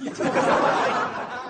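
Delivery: high airy laugh; cracking up at his own comeback; laughter. Real, not acted. Host laughing at his own reply to the colleague, high airy laugh.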